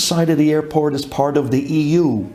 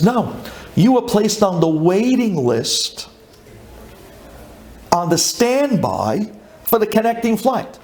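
put-on slow, higher-pitched European-accented clerk; 4 semitones higher than usual. Gate agent explaining the standby list to passenger, European accent. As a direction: break the news slowly in a light European accent. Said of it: "with a European accent".

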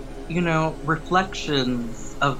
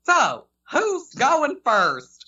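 slow, high, spooky ghost voice; Southern ghost guy voice; 11 semitones higher, much slower than usual. Shown as a demonstration. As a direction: draw each word out like a ghost. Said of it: "like the Southern Ghost guy".

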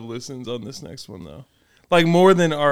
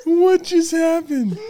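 laughing; 11 semitones higher, slower than usual. Real, not acted. Still convulsed after the spit.

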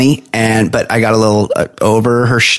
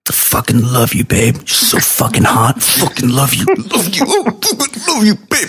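breathy sex whisper; 6 semitones higher than usual. Retold or imitated. Mock sexy movie line.

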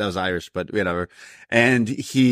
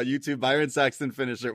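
ordinary talk, nothing marked

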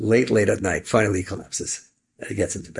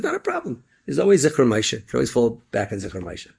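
upbeat self-talk; 2 semitones higher than usual. Acted. Kid reassures himself, high voice.

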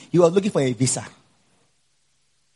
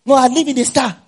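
sarcastic retort; 9 semitones higher, 6 dB louder than usual. Retold or imitated. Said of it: "I was so angry".

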